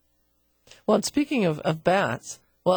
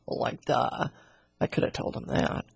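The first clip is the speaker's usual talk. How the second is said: sarcastic; 6 semitones lower, 5 dB quieter than usual. Real, not acted. Sarcastic aside about fungus.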